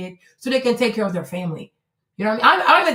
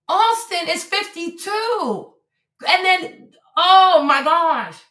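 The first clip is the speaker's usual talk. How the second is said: higher, louder, slowing as it sinks in; shocked realization; 7 semitones higher, 5 dB louder, slower than usual. Real, not acted. Streamer realizes she confused the numbers, rising shock. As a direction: gasp through the discovery.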